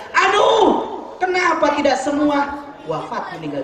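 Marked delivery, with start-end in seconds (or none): 0.1-2.6 high-starting mock wail, easing off; imitated cry. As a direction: act out a dying man's cry of regret. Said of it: "Kemudian teriak lagi Rasul yang ketiga".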